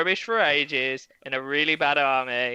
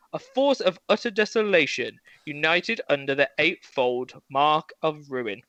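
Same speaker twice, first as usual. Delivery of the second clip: slow, grand storybook reading; storyteller voice. Shown as a demonstration. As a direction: read it like an epic tale. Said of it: "It's my best storyteller voice".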